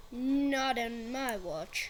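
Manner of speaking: heroic. Pretend. Heroic vow in play.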